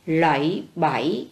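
"Lẫy bẫy" drawn out slowly, tones clear; slow model reading. Shown as a demonstration. Teacher models the word for pupils to repeat, slowly. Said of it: "chú ý cho cô vần A".

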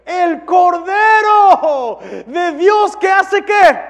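high, loud, slow proclamation; booming slow sermon shout; preaching at full force. Acted. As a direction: thunder it out to the congregation.

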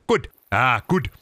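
mimicking a fake British "good"; fake British accent. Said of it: "like a fake British accent".

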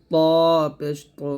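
ত পেশ তো with heavy rounded t; thick taw. Shown as a demonstration. Teacher contrasts heavy and light t, thick ত. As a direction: fill the mouth on ত and তো. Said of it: "ত মোটা হবে".

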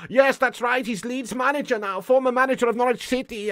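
put-on German accent, a little high; Daniel Farke. German manager confirming his new job, Daniel Farke impression. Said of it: "very high register in his voice".

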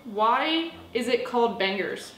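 slow, carefully spaced words for Siri; slow clear voice-assistant query. Real, not acted. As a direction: spell it out slowly so the phone understands. Hey Siri.

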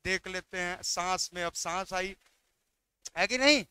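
softly relieved, catching breath; quiet relief. Real, not acted.

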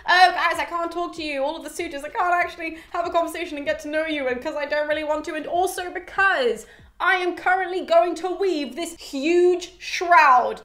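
high-pitched, put-on excuse-making; Penelope. Putting off the suitors with an excuse, in a high mock voice. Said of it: "she's like".

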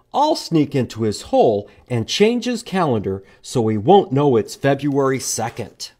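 lightly voiced scheming squirrel. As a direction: lay out the sneaky plan. Squirrel plans in picture book.

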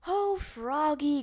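slow, weary sigh of a father; exasperated groan. Acted. Dad groaning at forgetful Froggy, slow weary groan. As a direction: groan it out, fed up. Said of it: "groaned Dad".

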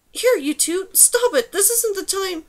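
high-pitched, urgent telling-off; sharp scolding. A narrator's reading. Girl scolding her passengers mid-bridge, high urgent scolding. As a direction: scold two squabbling little creatures.

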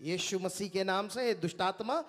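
low, softened retold command; careful command. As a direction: order it down gently, without raising the voice. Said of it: "बड़ी सलीके से". (नीची, नरम आवाज़ में सलीके से आदेश)

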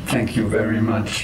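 stiff, even robot speech. Acted. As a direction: talk like a clunky robot. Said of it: "You actually speaking like a robot".

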